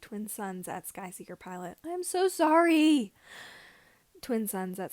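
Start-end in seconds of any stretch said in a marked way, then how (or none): 1.8-3.1 high, loud panicked apology; frantic apology. A narrator's reading. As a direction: blurt it out in a rush of guilt. Frantic apology after offending.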